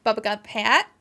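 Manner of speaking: thick Western New York accent. Real, not acted. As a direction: Western New York vowels coming through. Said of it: "My Western New York accent came out thick there".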